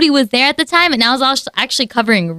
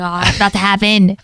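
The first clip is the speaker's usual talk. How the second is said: dad about to sneeze; 6 semitones lower than usual. Retold or imitated. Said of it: "When he sneezes, you just look at him".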